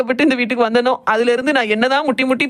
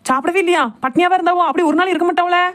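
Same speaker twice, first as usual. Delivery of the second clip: higher, shocked disbelief that she went hungry; surprised; 7 semitones higher than usual. Acted. Daughter-in-law shocked that her mother-in-law went hungry, higher disbelief. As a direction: gasp it out in alarmed surprise. Hears the aunt skipped lunch.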